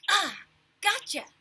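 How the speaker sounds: loud high gotcha, drawn out; gotcha shout. A narrator's reading. Big brother catching Fudge in the act, loud shout. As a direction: pounce on him with it. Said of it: "I called into".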